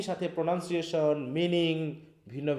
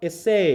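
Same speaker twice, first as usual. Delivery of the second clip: এসএ with a light first syllable and a stressed, louder second; 3 semitones higher, 6 dB louder, much slower than usual. Shown as a demonstration. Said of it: "এইখানে অ্যাকসেন্টটা কোথায় দেখো?".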